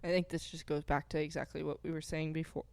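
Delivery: talking with the hiccups. Real, not acted. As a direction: hiccup between words. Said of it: "Oh, I got the hiccups".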